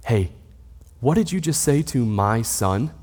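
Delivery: put-on a parent quietly confronting a child, kept tender. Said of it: "I'll say very tenderly".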